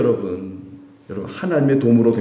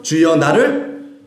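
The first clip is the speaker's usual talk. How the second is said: slow recitation; 3 semitones higher than usual. Shown as a demonstration. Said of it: "무슨 기도죠?".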